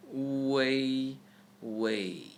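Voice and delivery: wei said as "w" gliding into "ay"; wei with A sound. Shown as a demonstration. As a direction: draw out wei, ending in an "ay" sound. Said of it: "The blue E here is actually A".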